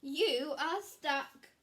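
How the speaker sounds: loud, slow gloating; slow taunt. Acted. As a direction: savour the words to tease. Triangle taunts stuck Square.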